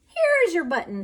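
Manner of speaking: loud eager call; excited cry. A narrator's reading. Frog calls to Toad by the river, loud eager cry. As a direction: call it out hopefully. Frog finds one in mud.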